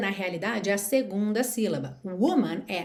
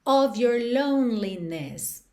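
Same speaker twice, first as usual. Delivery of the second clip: slow demo; slower than usual. Shown as a demonstration. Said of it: "teacher reads song line slowly".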